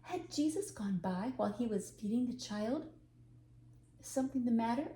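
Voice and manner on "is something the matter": kindly. Acted. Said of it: "asked the young woman kindly".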